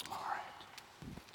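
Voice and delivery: soft breathy whispered aside. Acted. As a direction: drop to a whisper to end the scene. Closing the scene.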